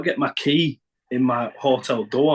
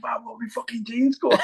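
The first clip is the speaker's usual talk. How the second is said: baffled; 9 semitones higher than usual. Retold or imitated. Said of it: "I'm thinking".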